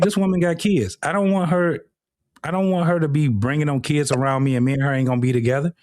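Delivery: a guy brushing off a single mom; man put off by kids. Retold or imitated. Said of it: "You're like".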